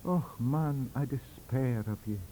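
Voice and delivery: despairing. Acted. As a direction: let the despair sink. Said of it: "Professor Swinton looked aghast".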